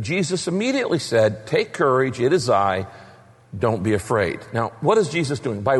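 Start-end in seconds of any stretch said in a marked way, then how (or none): 1.5-4.4 low, steady reassuring voice; calm reassurance. A narrator's reading. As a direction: settle frightened friends, pitched low. Jesus reassures the frightened disciples.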